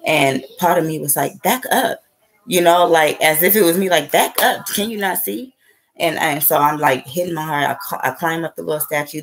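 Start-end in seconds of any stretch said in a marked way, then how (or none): 1.4-2.0 high-pitched retold protest; high, lightly indignant quote; acted warning. Part of her warning onlookers off. 4.1-5.5 high-pitched retold protest; high, mock-indignant warning; acted indignation. Repeats warning to onlookers, acted.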